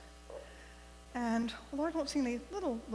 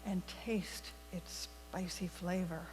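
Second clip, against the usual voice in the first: gentle read-aloud story voice for the congregation; storytelling for all ages. Acted. Minister reads a fable to the congregation, gentle storytelling. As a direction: tell it like a children's story at the front of church.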